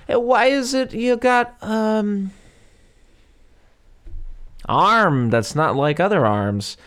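high, slow, put-on boy's voice; mock innocent kid asking slowly; Frankenstein's son. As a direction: squeak it out like a wide-eyed kid. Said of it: "Frankenstein's son goes".

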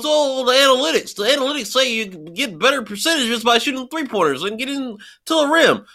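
a hint of a know-it-all numbers nerd; math nerd voice. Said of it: "trying to go with the math nerd, ner-, uh, voice".

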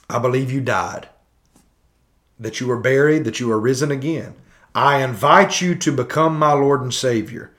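measured prayer recital with pauses; leading a prayer. Acted. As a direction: recite it phrase by phrase, pausing between. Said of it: "you pray this prayer".

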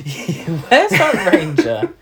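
slow, laughing echo of the line; mock it through laughter; laughing repeat. Co-host echoing the question, laughing.

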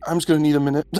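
high-pitched, recovering from a fright; shaken. Acted. Character lying by the pool after nearly dying, shaken. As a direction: plead for a moment in a high voice.

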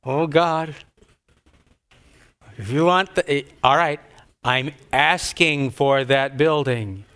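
slow, grudging, strained prayer; through gritted teeth. Retold or imitated. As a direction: force the words out reluctantly. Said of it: "through gritted teeth".

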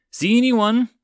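high, loud call over wind; shouting. Acted.

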